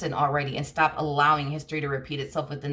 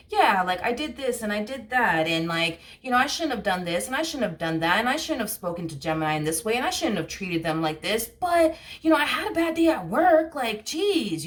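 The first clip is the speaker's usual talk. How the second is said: higher, whiny mock excuses, rising to a squeak; mock the partner brushing off blame; imitating a defensive excuse-maker; 4 semitones higher than usual. The partner justifying themselves, in a mock whiny excuse voice. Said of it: "that energy of".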